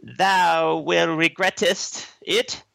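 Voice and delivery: grand, slow Shakespearean declaiming; Shakespearean actor. Retold or imitated. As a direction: declaim it like an old stage actor. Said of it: "speaks like a Shakespearean actor".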